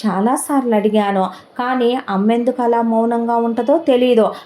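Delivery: a desperate son firing question after question; distressed son. Acted. Son questions uncle about father.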